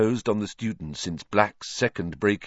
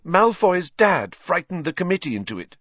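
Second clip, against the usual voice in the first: tearful; 10 semitones higher, 4 dB louder than usual. A narrator's reading. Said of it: "wiping her eyes".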